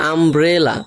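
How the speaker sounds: "আমব্রেলা" slowly in three beats, আম-ব্রে-লা; syllable by syllable. Shown as a demonstration. Teacher giving a three-syllable example, আমব্রেলা said slowly in parts. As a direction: draw out each syllable of "আমব্রেলা". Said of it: "তিনটা syllable আছে এখানে".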